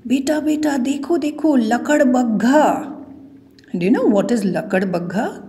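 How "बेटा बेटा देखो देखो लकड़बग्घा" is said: higher voice of an aunty pointing things out; lightly acted aunty calling a grandson to look; a hint of an eager grandmother, pitched up. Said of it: "एक aunty अपने grandson से कहती हैं".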